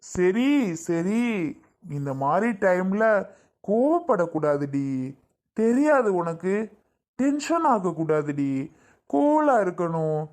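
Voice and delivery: slow, drawn-out coaxing; calm her down with stretched, gentle words; soothing. Acted. Husband calming his angry pregnant wife, soothing.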